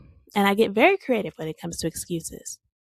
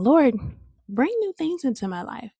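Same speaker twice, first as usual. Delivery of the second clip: imitating an earnest plea, pitched higher; pleading prayer; 5 semitones higher than usual. Woman quoting her own prayer to God, pleading. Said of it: "Sometimes I'm still praying".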